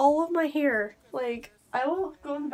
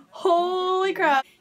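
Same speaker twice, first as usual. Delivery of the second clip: slow, higher, louder stunned gasps; stunned disbelief; 5 semitones higher, 5 dB louder, much slower than usual. Real, not acted. Seeing her hair cut off, slow higher stunned disbelief. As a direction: drag out the awe in slow motion.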